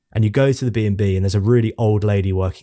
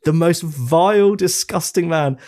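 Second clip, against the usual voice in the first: disgusted emphasis; 6 semitones higher, slower than usual. Real, not acted. Condemning Rusty.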